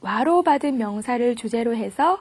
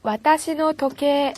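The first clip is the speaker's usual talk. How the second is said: slow model phrase; 3 semitones higher, slower than usual. Shown as a demonstration. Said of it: "예를 들어서".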